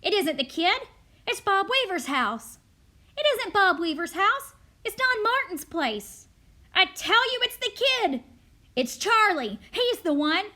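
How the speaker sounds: high, loud mob accusations; shouting. A narrator's reading. Neighbours accusing one house after another, panicked shouting. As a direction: shout over rival accusers.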